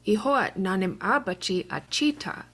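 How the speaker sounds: "achita" with pitch going down at the end; falling Chickasaw question. Shown as a demonstration. Teacher showing the Chickasaw question, falling pitch. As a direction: let the tune drop on "achita". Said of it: "So the pitch goes down at the end".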